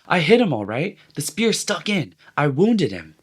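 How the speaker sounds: breathless, high, proud boasting; excited. A narrator's reading. Boy boasting to hunters, excited and high. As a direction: crow about the hit. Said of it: "Ralph talked on excitedly".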